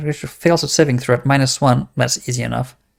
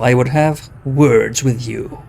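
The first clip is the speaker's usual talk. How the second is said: slow, louder boulder-like voice; creaking stone voice; 4 dB louder than usual. Acted. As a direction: speak like grinding rocks. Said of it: "calls out to you in a creaking voice that sounds like the shifting of boulders".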